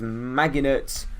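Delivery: "Maginot" with a hard g; trying a pronunciation. Shown as a demonstration. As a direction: say "Maginot" as MAG-i-nut, unsure. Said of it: "I don't know how that's pronounced".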